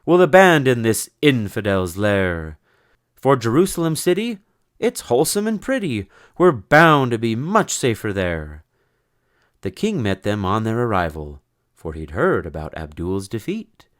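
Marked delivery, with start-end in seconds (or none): 0.0-8.6 loud, high knightly proclamation; rally the band with glee; triumphant. Acted. Sir Cedric telling his party where to go, triumphant. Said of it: "said Sir Cedric triumphant".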